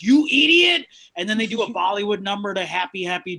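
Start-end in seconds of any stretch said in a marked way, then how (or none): 0.0-0.9 put-on loud, high Indian-accented "You idiot!" with a Ren whine; old Indian man accent. Comic repeating how older Indian men say "idiot", loud Indian accent. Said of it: "It's just".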